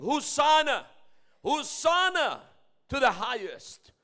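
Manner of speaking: calling out Hosanna, slow on the second; voicing the crowd's cry; crowd shout. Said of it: "the people are shouting".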